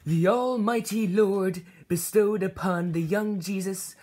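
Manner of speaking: slow, grand biblical narration; solemn scripture telling. Acted. Preacher telling the congregation a solemn bible story. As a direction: intone it like a holy text.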